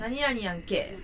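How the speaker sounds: quick sample of rough Banshu dialect. Shown as a demonstration. Guest showing hosts her dirty-sounding home dialect, Banshu dialect. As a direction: show off a coarse Banshu sentence ending. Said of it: "播州弁がすごく汚くて".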